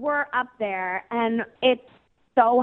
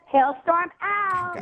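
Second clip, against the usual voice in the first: catchphrase sign-off; 7 semitones higher, slower than usual. Real, not acted. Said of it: "you say that all the time".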